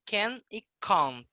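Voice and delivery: can and can't in a British accent. Shown as a demonstration. Teacher showing how they speak, British accent. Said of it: "Questão de sotaque deles".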